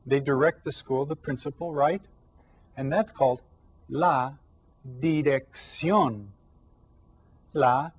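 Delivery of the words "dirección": slow "dirección", weight on the final "ción"; careful teacher's "dirección", last syllable stretched; stress on last syllable. Shown as a demonstration. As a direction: lean on the end of "dirección". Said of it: "tells us to stress this syllable".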